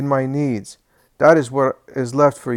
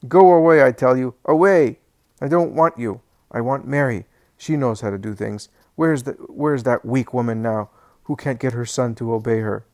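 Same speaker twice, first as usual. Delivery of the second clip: loud, higher, furious senile shouting; angry old man; 3 semitones higher, 8 dB louder than usual. Acted. Alphaeus shouts his wife out of the room, furious.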